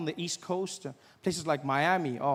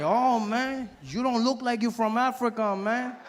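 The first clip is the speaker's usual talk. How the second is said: imitated sceptical guy; 5 semitones higher, slower than usual. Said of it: "He's like".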